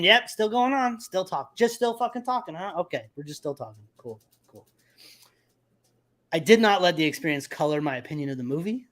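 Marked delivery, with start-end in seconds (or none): 0.0-4.7 sarcastic running commentary, raised then dropping away; being shitty. Retold or imitated. Moviegoer griping about nonstop talker, being shitty. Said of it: "I just kept being shitty".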